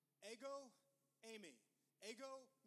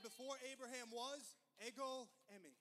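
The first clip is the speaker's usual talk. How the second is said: Ego eimi declared louder, like a climax; loud proclamation; 8 dB louder than usual. Acted. Preacher voicing Jesus before the stone-throwers, loud. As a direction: thunder the claim to the crowd. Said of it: "He said".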